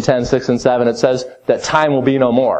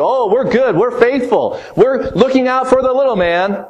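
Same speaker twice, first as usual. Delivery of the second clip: high, sing-song false sincerity; high mock voice of corrupt leaders; mocking the rulers; 10 semitones higher than usual. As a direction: parody the powerful's smooth reassurances, pitched up. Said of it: "They're gonna tell you".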